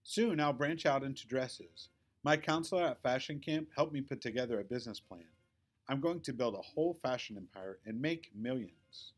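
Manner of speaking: a hint of a show-off dreaming big; Victoria boasting. Victoria bragging about her fashion empire, lightly voiced proud girl.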